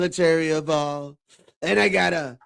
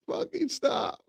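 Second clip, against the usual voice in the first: higher mock yell; mock stop; 11 semitones higher, 3 dB quieter, slower than usual. Friend recalling the director's stop cue, mock yell. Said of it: "Stop. Stop".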